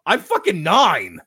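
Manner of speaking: put-on high, indignant kid yelling at the family; mocking Kevin voice. Retelling Kevin's retort to his family, high indignant kid voice. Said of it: "And he was like".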